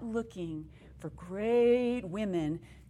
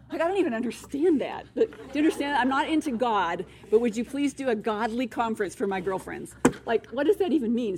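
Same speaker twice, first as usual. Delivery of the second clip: high, loud disbelief at a puzzling request; incredulous outburst; 3 semitones higher, 8 dB louder than usual. Real, not acted. Mother to the audience about her daughter, in loud baffled disbelief. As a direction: throw up your hands, can't make sense of it.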